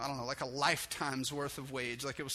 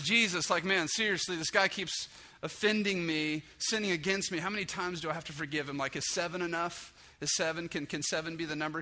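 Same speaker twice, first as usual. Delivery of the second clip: exasperated Peter; 3 semitones higher, 4 dB louder than usual. Acted. Peter venting to Jesus about a neighbour, loud and exasperated. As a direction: vent like a hothead who has had enough.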